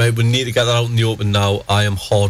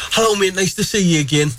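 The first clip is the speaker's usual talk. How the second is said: higher, breezy imitation of a greeting; chummy greeting; 7 semitones higher than usual. Comic greets an act in the green room, chummy. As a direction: act out a familiar hello, pitched up.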